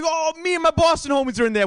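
high, giggly bragging; laughing self-quote. Retold or imitated. Telling San Fran comics about Boston friends, high and giggly. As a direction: laugh through the boast. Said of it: "I'm like".

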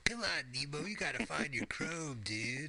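laid-back surfer dude; surfer turtle voice. Retold or imitated. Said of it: "that turtle from Finding Nemo".

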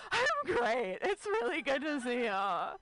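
oversell how great you are; forced cheer. Retold or imitated. Overcompensating with fake cheer.

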